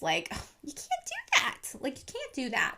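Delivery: high-pitched disbelieving reprimand; exasperated scolding. Retold or imitated. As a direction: scold the mob like they should know better. Scolding the lynch mob.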